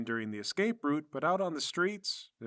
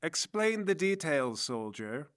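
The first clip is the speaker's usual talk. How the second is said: dismissive; slower than usual. Acted. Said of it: "waves her hand dismissively".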